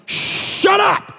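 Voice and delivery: high, incredulous "shut up" shout; surprised yelp. Retold or imitated. Hearing about a free horse, high disbelieving shout. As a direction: squeal it in disbelief.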